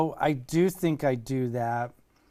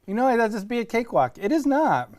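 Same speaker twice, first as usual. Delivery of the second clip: sour candy in mouth; talking through puckered sour face; eating sour candy; 8 semitones higher, 5 dB louder than usual. Real, not acted.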